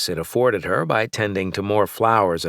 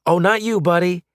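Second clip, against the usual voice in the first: soothing; 10 semitones higher, 3 dB louder than usual. A narrator's reading. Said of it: "I said soothingly".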